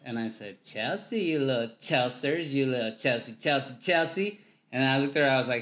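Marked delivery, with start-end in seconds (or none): 0.6-4.4 slow, drawn-out mock coo of her name; mock dog baby talk. Teasing Chelsea by cooing her name like dog talk. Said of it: "Tell me if you like this".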